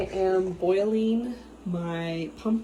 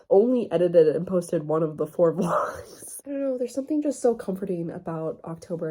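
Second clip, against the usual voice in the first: emotional; 5 dB louder than usual. Real, not acted. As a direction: whisper it, moved and a little choked up, with a small laugh. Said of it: "I'm getting emotional".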